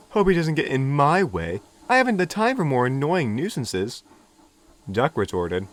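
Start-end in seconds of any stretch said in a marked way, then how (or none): 0.1-4.0 louder, dismissive sneer; scornful engine. A narrator's reading. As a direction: brush him off with disdain. James scornful.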